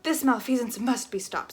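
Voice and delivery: a hint of a superhero; lightly heroic declaration. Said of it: "in a deep and superheroic voice".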